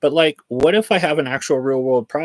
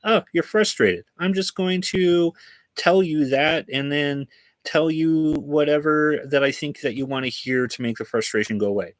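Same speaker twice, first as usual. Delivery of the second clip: mocking AI voice; 3 semitones higher than usual. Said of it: "But the A I thinks".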